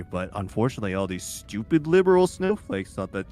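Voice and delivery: deadpan crypto bro; toxic bro voice. Pretend. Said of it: "pretend that I have a toxic masculine personality".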